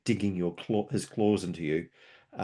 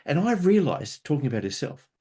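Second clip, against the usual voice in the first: eager puppy-dog friend; 4 semitones higher, 4 dB louder than usual. Retold or imitated. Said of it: "she goes".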